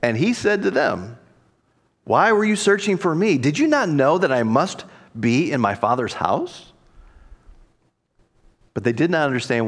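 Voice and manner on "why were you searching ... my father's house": mildly flippant comeback question; a touch of cheeky surprise. Acted. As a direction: answer back lightly, rising at the end. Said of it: "Jesus seemed to be rather flippant".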